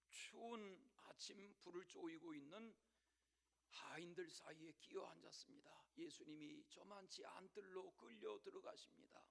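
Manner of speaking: ordinary delivery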